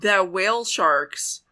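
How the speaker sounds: slow, drawn-out mock "did you know"; pointed trivia delivery. Countering a know-it-all with shark facts, slow and mock-momentous. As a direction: stretch it out like astonishing trivia.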